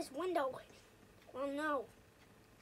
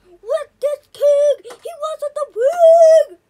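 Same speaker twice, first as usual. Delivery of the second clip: slow triumphant shout; 7 semitones higher, 20 dB louder, slower than usual. Real, not acted. Gloating loudly, slow.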